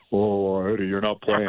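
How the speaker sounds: half-hearted mopey impression; mopey coach. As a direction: lightly mimic a glum, deflated delivery. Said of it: "just moping".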